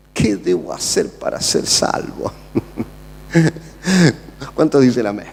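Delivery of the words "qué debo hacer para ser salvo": hushed, breathless plea; trembling jailer. Acted. Jailer pleading with Paul and Silas, hushed and afraid. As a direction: beg in a frightened hush. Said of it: "temblando se postró".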